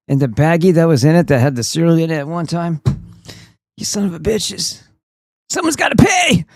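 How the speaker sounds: whiny mock outrage that climbs to a high, shrill pitch by the end; mock rant. Mocking someone who rages over trivial things, building mock fury. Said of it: "It's like".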